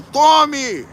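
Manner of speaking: sudden high shouted Tome; mock shout. Giving in to the pastor's emotional appeal, with a mock shout. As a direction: fling it out like giving in at last.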